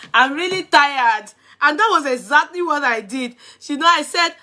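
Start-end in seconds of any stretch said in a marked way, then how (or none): 0.1-1.3 drawn-out, slow quote; slow mimicked "I'm really tired"; imitated tired complaint. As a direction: imitate her, stretching out the words. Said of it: "Did you hear the way she mentioned".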